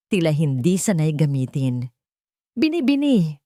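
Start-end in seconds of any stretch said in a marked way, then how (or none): 2.6-3.4 a touch of tremble, higher and unsure; like a voice rarely used, a faint quiver; slightly trembling voice. A narrator's reading. Man asks the girl to dance, a slight tremble. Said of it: "Ang kanyang boses ay bahagyang nanginginig".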